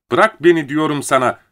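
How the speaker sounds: high, loud, urgent demand; crying out. A narrator's reading. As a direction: shout to be let go. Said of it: "diye haykırdı". (yüksek sesle haykırarak)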